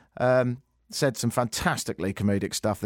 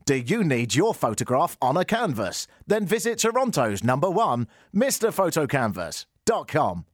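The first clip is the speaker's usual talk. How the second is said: ad read. Acted.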